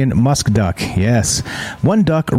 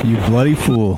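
duck call. Retold or imitated.

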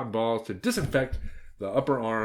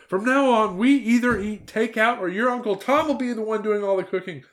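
higher, louder, earnest aunt's voice; aunt vowing to Red Riding Hood, higher and louder; aunt confessing; 7 semitones higher, 5 dB louder than usual. Acted. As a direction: renounce it all with zeal.

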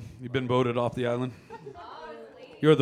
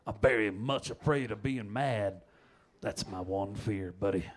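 slow dramatic read; 4 semitones lower, 6 dB quieter than usual. Acted. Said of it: "threw that in just for inflection".

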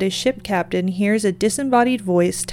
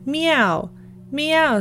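two higher cat meows; 7 semitones higher than usual. Acted. Old Tom the cat answers the story with higher meows. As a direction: meow twice like a cat, pitched up. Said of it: "Said old Tom again".

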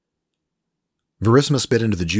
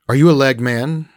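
higher, louder smug Frenchman; Frenchman Rolf; 8 semitones higher, 9 dB louder than usual. Acted. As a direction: sell it like a slick French trader. Rolf teasing.

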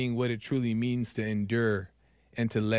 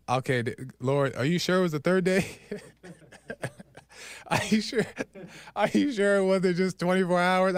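joking bargain with God; 3 semitones higher than usual. Retold or imitated. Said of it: "I was like".

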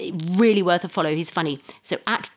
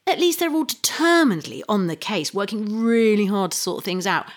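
sarcastic praise; 2 semitones higher than usual. Acted. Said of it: "It was my horribly sarcastic introduction".

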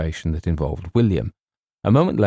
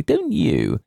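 put-on high, eager girlish question; ecstatic; 7 semitones higher than usual. A narrator's reading. Girl asks James to share her love, ecstatically. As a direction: press eagerly in a raised voice. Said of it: "clasping her hands ecstatically".

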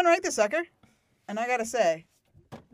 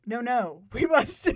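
mock-stilted line delivery, pitched up toward the end; unnatural dialogue; 3 dB louder, much slower than usual. Imitating Tara's odd line, stilted and unnatural. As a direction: imitate an awkwardly scripted warning. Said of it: "The unnatural line of dialogue".

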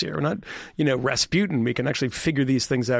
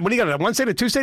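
higher, rising mock auctioneer calling for bids; 6 semitones higher, much faster than usual. Mocking the president as pig auctioneer, higher pitched. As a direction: hawk the states like pigs at auction. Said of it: "auctioning pigs off".

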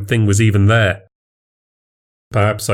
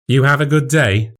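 higher, polite question; awkward small talk; 5 semitones higher than usual. Acted. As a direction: break the silence with small talk. Forced small talk in silence.

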